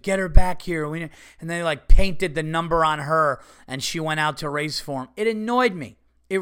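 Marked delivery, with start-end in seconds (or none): 0.0-0.9 loud call, a mock coach's yell; retold shout. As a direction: bark it like the coach wants her back in the race. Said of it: "he's like".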